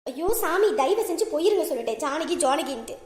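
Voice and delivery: exasperated, fed-up plea to leave; angry dismissal. Acted. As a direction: send him off with weary irritation. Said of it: "சரி, நீ கோவமா இருக்க". (எரிச்சலோடு விரட்டுதல்)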